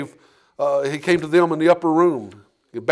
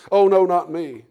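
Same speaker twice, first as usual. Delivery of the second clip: quick brushing-off denial, a touch louder; nervous denial; 3 semitones higher, 5 dB louder, slower than usual. Acted. Peter brushing off the courtyard accuser, a quick nervous denial. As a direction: wave the question away fast.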